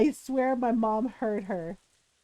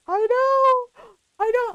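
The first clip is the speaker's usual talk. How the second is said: high, louder eager agreement; excited agreement; 9 semitones higher, 5 dB louder, slower than usual. Retold or imitated. Narrator agreeing with her friends, high and eager. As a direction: gush it like big news.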